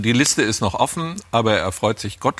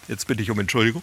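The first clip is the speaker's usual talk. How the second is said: choking on a drink; faster than usual. Real, not acted. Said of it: "Ich hab mich verschluckt".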